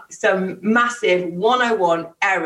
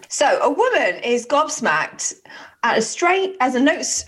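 story reading; 3 semitones higher than usual. A narrator's reading. Starts reading the story aloud.

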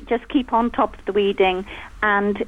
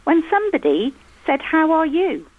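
put-on reading a child's story aloud to the room, a little higher; 3 semitones higher than usual. Mother reading her son's childhood story to the guests, storybook voice. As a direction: read it like a school storybook.

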